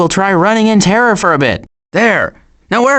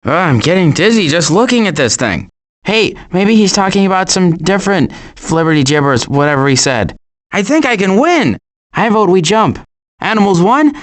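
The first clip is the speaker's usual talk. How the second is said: ordinary delivery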